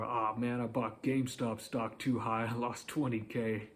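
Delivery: light, self-assured owning up to a loss; smiling confidence. Shown as a demonstration. Coach models a made-up bad day story, confidently. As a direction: tell the loss with easy confidence. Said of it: "with a smile on your face or with confidence".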